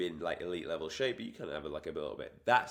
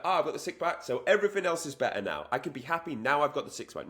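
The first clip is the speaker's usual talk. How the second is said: higher, self-satisfied mock voice; hammed-up smug voice, raised pitch; smug daydream; 6 semitones higher, faster than usual. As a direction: gloat like the job is done. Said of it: "don't think that".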